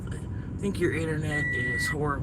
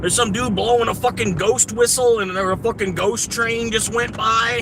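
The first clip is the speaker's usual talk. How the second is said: raised, exasperated rant at another driver; angry driver rant; 5 semitones higher than usual. Real, not acted. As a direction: vent at the idiot who sat at the stop sign. Ranting at a stopped driver.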